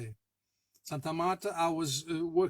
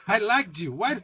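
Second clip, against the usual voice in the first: louder and higher, wailing over the dead pet in mock despair; a loud theatrical mock wail to a dead snake; hammed-up mock grief; 5 semitones higher, 6 dB louder than usual. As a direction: ham up a tragic lament, half laughing.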